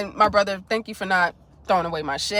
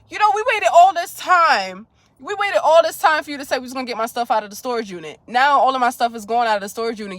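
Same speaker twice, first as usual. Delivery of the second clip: angry retold rant; 2 semitones higher than usual. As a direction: replay the phone fight at the ex. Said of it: "I'm on the phone cursing at my fucking ex".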